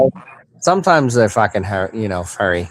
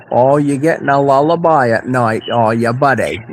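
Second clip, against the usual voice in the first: Maine accent. Shown as a demonstration. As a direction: talk like a true Mainer. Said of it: "talk to Henry like a Maina".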